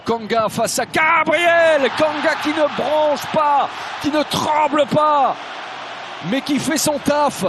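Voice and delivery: loud, slowed play-by-play build; excited call. Real, not acted. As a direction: call it rising with the crowd. Goal commentary, excited call. (commentaire de but enflammé)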